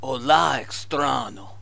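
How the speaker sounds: lightly put-on Spanish accent; fake Spanish accent. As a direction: play Carlos with a Spanish accent. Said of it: "your fake Spanish accent".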